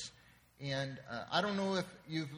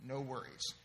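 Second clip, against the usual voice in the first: softer, unworried reassurance; logical husband; 3 semitones lower, 5 dB quieter than usual. Acted. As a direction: play the husband calmly dismissing the problem. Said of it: "husband very logically says".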